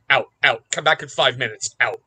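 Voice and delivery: loud, choked-up command to leave; firm order. Retold or imitated. Stepdad sending the boy out before crying, loud firm order. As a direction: push him out before the tears show.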